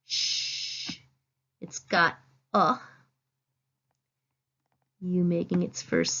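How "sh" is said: unvoiced sh hissed softly; sh sound. Shown as a demonstration. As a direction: say "sh" as a long soft hush with no voice. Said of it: "It's got that S H".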